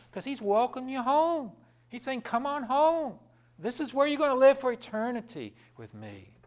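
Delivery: rising pulpit invitation; joyful preaching. Acted. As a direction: call them home with joy. Preacher voicing God's welcome.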